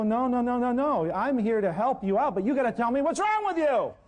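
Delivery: exasperated doctor. Retold or imitated. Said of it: "I go".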